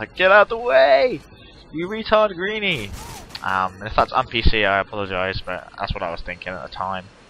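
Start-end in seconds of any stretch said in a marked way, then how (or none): 0.2-2.9 put-on very high, slow, drawn-out mild scream. Retelling screaming at a guy in the way: imitating own screaming. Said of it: "I started screaming at that guy".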